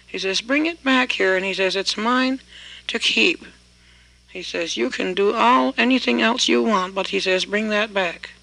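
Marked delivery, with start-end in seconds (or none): 0.4-1.3 much higher, loud demanding call; hollering. Acted. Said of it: "that man hollered". 1.8-3.5 hollering. Acted. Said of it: "that man hollered". 4.8-6.9 higher, loud bargaining shout; hollering. Acted. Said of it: "that man hollered". 7.5-8.3 hollering. Acted. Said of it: "that man hollered".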